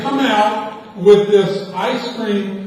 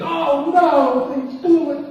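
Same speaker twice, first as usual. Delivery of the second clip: owner's voice raised high, rushing through the apology; apologetic owner, voiced higher; 7 semitones higher than usual. Restaurant owner apologizing to the boy over the wrong ice cream, higher and quick. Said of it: "And he said".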